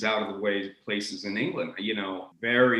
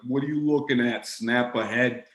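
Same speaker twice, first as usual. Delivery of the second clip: New York dock worker. Retold or imitated. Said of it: "when you got the dock workers in New York".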